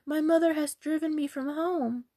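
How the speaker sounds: high, plaintive lament; woeful girl's high voice; distressed cry. Acted. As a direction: plead your sorrow pitifully. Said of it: "she cried".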